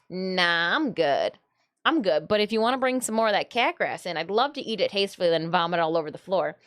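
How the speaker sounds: voicing the cat, low and lazy; playing the cat turning down a churro, low and unbothered; cat's voice. Cat talking to owner, lazy low voice. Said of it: "he was like".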